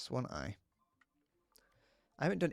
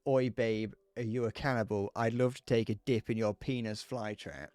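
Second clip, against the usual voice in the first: cheesy pickup line; 4 dB louder than usual. Retold or imitated. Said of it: "and I'm saying".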